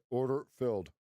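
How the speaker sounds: lightly voiced automated order voice; mock broker voice. Narrating the tape for viewers, lightly robotic. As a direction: read it like the platform's voice. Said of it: "I was narrating the tape".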